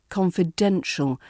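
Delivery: confidential with main stress on DEN. Shown as a demonstration. Teacher repeats for learners, confidential stressed on DEN. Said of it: "emphasis here focuses on the den".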